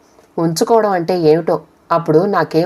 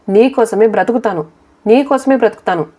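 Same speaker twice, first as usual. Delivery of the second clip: repeated vow, climbing higher the second time; insistent vow; 5 semitones higher than usual. A narrator's reading. Mother vows to live for her son, with rising insistence. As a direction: lift the pitch with mild emotional insistence.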